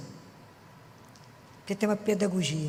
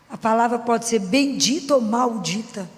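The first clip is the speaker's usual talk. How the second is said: usual speaking voice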